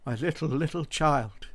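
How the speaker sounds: a father mourning, lightly voiced; grieving cry. A narrator's reading. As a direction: let the voice catch on little. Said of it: "cried Bob".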